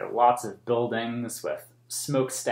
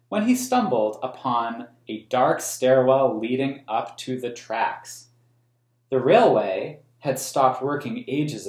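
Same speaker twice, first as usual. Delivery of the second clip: put-on reading a picture book aloud to children; storybook reading for kids; story narration. A narrator's reading. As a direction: tell the story in a clear, even read-aloud voice. Reads the book's text aloud.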